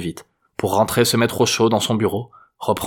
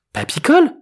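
put-on very high girlish question; astonished granddaughter; 5 dB louder than usual. A narrator's reading. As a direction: squeak it up as a puzzled girl. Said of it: "demanda Juliette".

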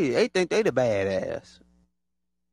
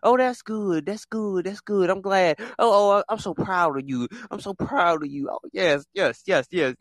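higher, grudging fake praise; mock fake congratulations; 4 semitones higher than usual. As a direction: mimic a jealous auntie's hollow praise. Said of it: "they can't even give you a congratulations".

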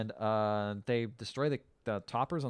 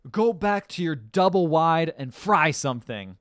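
mock snooty insult; 4 semitones higher, 6 dB louder, slower than usual. Mother insults bride.

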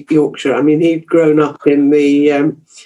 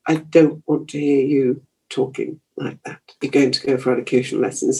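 imitated disapproving mother; 2 semitones lower, 6 dB quieter than usual. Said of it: "my mother would".

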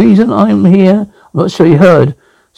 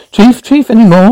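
urgent calling out; 5 semitones higher than usual. Acted. Calling to fallen chief.

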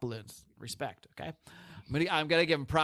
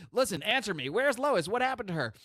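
a pushy, raised mock interrogation; demanding Superman; 7 semitones higher than usual. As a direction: shake the answer out of him. Superman grabbing Kane, demanding.

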